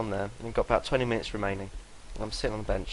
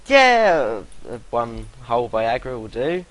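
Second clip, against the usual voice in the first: mock junkie; 7 dB louder, slower than usual. Mock junkie self-quote.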